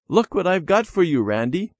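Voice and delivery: put-on a little boy's eager, high-pitched offer; excited offer. A narrator's reading. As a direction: eagerly show off a gift. Child offers friend a gift.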